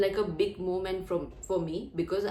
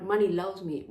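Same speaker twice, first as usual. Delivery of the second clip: "loves" given deliberate weight; emphasized affirmation. Shown as a demonstration. Coach wanting to impress mind, stress on "loves". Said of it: "I just emphasize the words".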